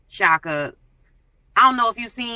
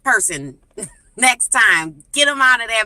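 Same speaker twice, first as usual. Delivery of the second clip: calling out; 3 semitones higher than usual. Retold or imitated. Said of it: "I just wanna say".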